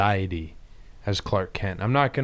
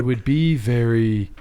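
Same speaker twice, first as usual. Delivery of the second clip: Superman voice; slower than usual. Acted. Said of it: "your Superman voice".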